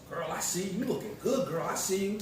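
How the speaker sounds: lightly voiced, high teasing praise; playful girl compliment. Quoting a young neighbour's praise, mildly high and playful. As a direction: tease her like a neighbour cheering you on. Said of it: "she said".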